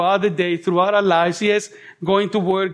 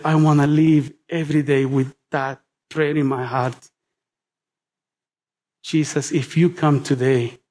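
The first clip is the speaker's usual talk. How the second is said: tender prayer; 4 semitones lower than usual. Acted. Voicing a heartfelt prayer.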